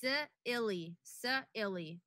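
S-, illy with a separate hissed s; S-, illy, s held apart; split s sound. Shown as a demonstration. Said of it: "it's only s".

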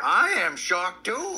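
shocked. Real, not acted. Echoing shock.

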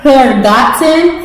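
talking around a mouthpiece; wearing a mouthguard. Real, not acted. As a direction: read it with a mouthguard in. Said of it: "the person with the mouthpiece in reads a card".

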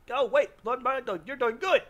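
loud, high, laughing cheer; real delight, whooping; excited cheer. Real, not acted. Gamer cheering Lord Mad Dog's win, loud excited whoops.

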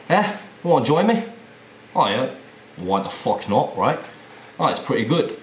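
British pub-mate accent, livelier. Shown as a demonstration. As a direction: banter like a Brit out for a pint. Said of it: "coming into the British accent of it".

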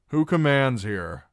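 high, loud challenge; loud demand. Acted. Reek demanding of the garrison, high and loud. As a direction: call out over the room.

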